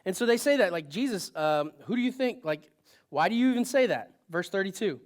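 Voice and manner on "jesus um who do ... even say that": put-on sarcastic teenager. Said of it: "like a sarcastic little teenager".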